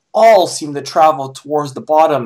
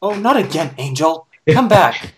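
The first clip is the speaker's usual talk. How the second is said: exasperated cry. Acted. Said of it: "cried an exasperated Fluttershy".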